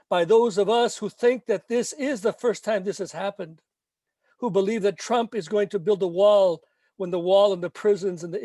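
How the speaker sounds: measured, emphatic spoken-word reading; poem recitation. Acted. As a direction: declaim each line like a protest poem.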